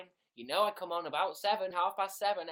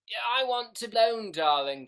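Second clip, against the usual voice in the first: mock diva; 5 semitones higher, 10 dB louder than usual. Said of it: "Chris seventeen".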